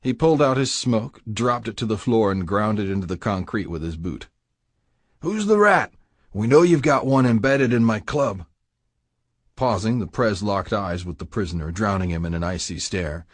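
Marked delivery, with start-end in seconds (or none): 5.2-8.5 a threatening club boss, pitched higher, cold and hard; menacing biker president. Acted. Prez interrogates the prisoner.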